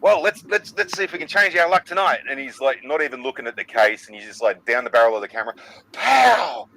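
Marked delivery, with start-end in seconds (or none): 0.0-2.2 cocky game show guest. Retold or imitated. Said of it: "it was kind of like". 5.9-6.7 high sharp pow; mock exclamation; loud exclamation. Retelling the show's reaction.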